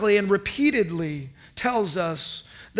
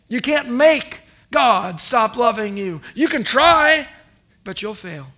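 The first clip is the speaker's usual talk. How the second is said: emphatic preaching; 3 semitones higher, 5 dB louder than usual. Acted. Pastor challenging congregation, emphatic preaching. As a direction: challenge them, then rise.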